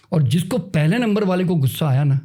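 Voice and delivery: ordinary talk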